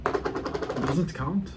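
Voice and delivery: slow, drawn-out Irish lilt on doesn't; Conor McGregor impression. Vlogger repeats his impression slowly for the camera, mild Irish accent. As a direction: stretch It doesn't count with a light Irish accent. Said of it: "my Conor McGregor impression".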